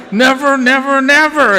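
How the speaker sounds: high, hammed-up angry repetition; retold upset husband. Husband forbids his wife to call during rehearsals, angry. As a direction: hammer each word as the imitated angry husband. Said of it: "And he was so upset".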